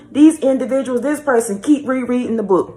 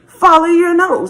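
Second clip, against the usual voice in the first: higher, louder sing-song mock of the mascot slogan; mocking Toucan Sam; 7 semitones higher, 3 dB louder than usual. Mocking copycats who repeat the same saying, hammed-up mascot chant. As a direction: mimic the nosy people chanting the cereal catchphrase. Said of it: "They got that same saying".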